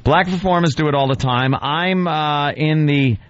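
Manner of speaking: pompous recital, lingering on the silly names; mock dramatic reading. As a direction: read the screed aloud, relishing each insult. Reads the writer's piece mockingly.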